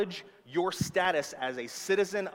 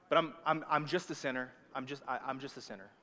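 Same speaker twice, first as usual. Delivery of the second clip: faltering, fading imitation of defeat; mock resigned; 3 semitones lower, 4 dB quieter, faster than usual. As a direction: trail off like a believer giving up. Voicing a believer resigned to sinning.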